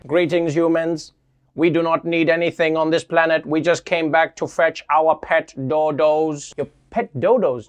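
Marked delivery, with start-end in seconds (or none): 0.1-6.5 put-on old speech synthesizer. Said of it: "they're just like".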